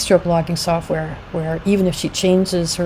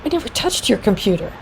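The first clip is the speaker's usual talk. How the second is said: higher-pitched, mock-offended protest; lightly acted indignation; offended denial; 4 semitones higher than usual. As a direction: deny it as if wrongly accused. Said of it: "he looks very offended".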